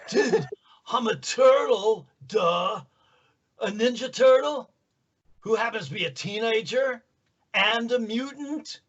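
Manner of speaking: high-pitched surfer-dude turtle; high drawn-out dude voice, questioning lilt; Michelangelo. Acted. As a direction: answer like a goofy, laughing surfer dude. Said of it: "you'd look at Michelangelo and say".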